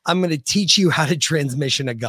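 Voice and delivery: holding back laughter; trying not to crack up; stifled giggles. Real, not acted. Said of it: "I'm so trying not to laugh".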